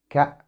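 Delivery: "ك" as a brief k sound; short, isolated "ك" for the letter C; hard C sound. Shown as a demonstration. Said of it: "ينطق".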